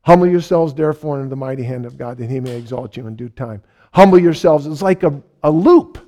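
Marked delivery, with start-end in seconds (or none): 0.0-4.7 quick, fading recitation of a verse; recited verse in mind. Retold or imitated. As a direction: rattle off the verse like a loop in the head. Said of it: "It was looping on me".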